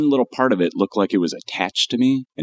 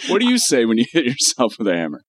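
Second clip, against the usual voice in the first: ordinary talk, nothing marked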